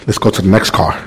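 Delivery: low, soft private grumble to himself; muttered inner thought. Retold or imitated. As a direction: mutter it under your breath, hoping to skip this car. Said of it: "I said, in my mind".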